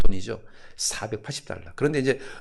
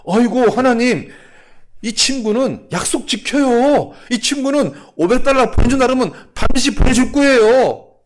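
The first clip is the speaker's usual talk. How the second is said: high, loud plaintive protest; protesting pastor; 11 semitones higher, 8 dB louder than usual. Acted. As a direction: insist loudly to God, high-pitched.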